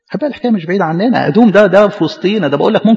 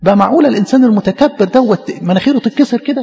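rising, higher, disbelieving questions; increasingly incredulous, pitch climbing; mock astonishment; 4 semitones higher than usual. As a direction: build the prophet's disbelief line by line. Prophet's astonishment retold.

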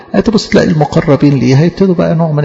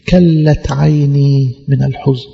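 slow lament; slower than usual. Retold or imitated. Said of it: "quoted lament".

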